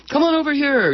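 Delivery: high, sustained calling-over voice; beckoning inviter. Acted. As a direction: call them over on one long high note. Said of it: "to be inviters going".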